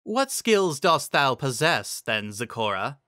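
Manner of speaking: slow, lofty royal question; regal Celestia. Acted. Celestia questioning the zebra, slow and lofty. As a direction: press the zebra with cool authority.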